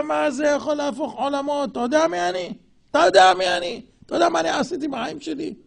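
puffed-up mocking brag; mock boast. Preacher mocks a self-important man bragging. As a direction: lord it over the listener.

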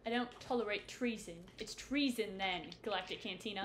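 a light put-on British accent; mock British accent. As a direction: play a mock Brit declaring treason. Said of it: "Why are we British all of a sudden?".

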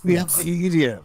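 hammed-up Russian villain voice; jokey Russian villain offering EDM in his castle; bad Russian accent. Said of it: "two guys doing bad Russian accents".

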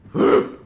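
loud, breathy burst; sharp huff. Real, not acted. Gamer fed up with teammates, sharp angry huff. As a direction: huff out hard in frustration. Angry outburst between rants.

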